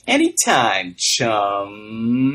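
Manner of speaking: "chum" ending in a popped ejective p; Bart's "chum" with a sly ejective p. Retold or imitated. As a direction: pop a glottal p after "chum". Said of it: "he ends it with a nice ejective P".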